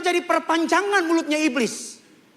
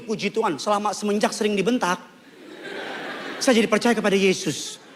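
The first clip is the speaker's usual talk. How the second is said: mock testimony; 5 semitones lower than usual. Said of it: "kesaksian ngomong gini".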